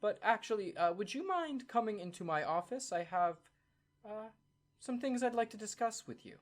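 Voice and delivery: a flustered clerk gushing politely; flustered official. Acted. Madame Longquill inviting Bryce into her office, high and eager. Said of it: "Madame Longquill goes".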